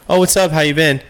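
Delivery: high-pitched mock pleasantries, both sides; perfunctory small talk. Mock shallow exchange between acquaintances.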